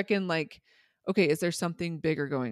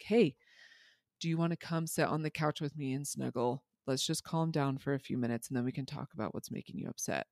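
calm, gentle invitation; 3 dB quieter than usual. Retold or imitated. Mother to upset child instead of scolding, calm and gentle. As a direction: offer it gently, keeping it soft. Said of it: "I'm staying calm".

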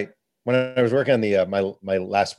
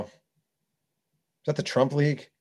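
drawn-out J R Ryder question; 5 semitones higher, 4 dB quieter, much slower than usual. Retold or imitated. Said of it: "He's like".

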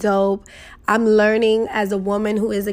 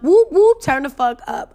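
birthday hype; 5 semitones higher, 3 dB louder than usual. Real, not acted.

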